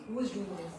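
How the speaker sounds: soft, low question to yourself; wondering quietly. Acted. Guru peeping through the trees at a dark shadow, wondering quietly. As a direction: peep out and ask it low and quietly.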